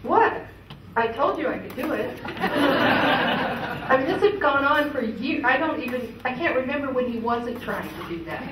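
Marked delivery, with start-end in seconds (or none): 0.0-2.1 a light smug jab, high on what; lightly voiced boastful father; smug dad. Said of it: "he said something like". 2.3-5.4 laughing. Real, not acted. Laughing about years of attempts.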